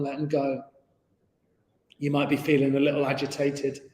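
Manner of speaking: unhurried meditation guide with long pauses; guided meditation. Real, not acted. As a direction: ease them inwards, leaving space between phrases. Leads a meditation.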